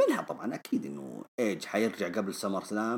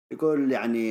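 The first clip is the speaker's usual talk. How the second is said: ordinary delivery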